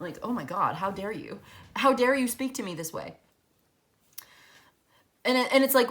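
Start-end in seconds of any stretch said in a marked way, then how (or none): 0.2-3.2 mock shocked, offended, pearl-clutching outraged indignation. Acting out a shocked reaction to blunt news: mock pearl-clutching outrage. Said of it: "clutching my pearls".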